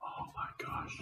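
tiny, very soft high voice; hushed amazement. Acted. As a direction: barely voice it, awestruck. Aside at the extraordinary sight.

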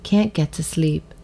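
put-on measured storybook reading for children; gentle read-aloud with clear pauses; story narration. A narrator's reading. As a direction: read it like a picture book, with pauses. Reads a picture book.

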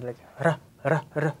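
"ra" with one quick tap of the tongue; flipped R. Shown as a demonstration. Teacher showing students the Korean flap, tapped "ra". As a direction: flick the tongue once for "ra", not an English R. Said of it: "a flipped R sound".

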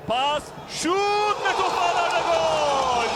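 screaming football commentator. Real, not acted. Goal call, drawn out.

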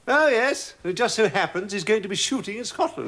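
knowing mock agreement; sarcastic echo. Sister doubts the husband's invitation, sarcastic echo. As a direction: throw the excuse back sceptically.

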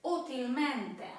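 utilmente drawn out, accent on the U, then falling; utilmente, accented fourth syllable from the end; stress on early syllable. Shown as a demonstration. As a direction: slowly stress the opening of utilmente. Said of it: "akcent toniczny w wymowie pada na czwartą".

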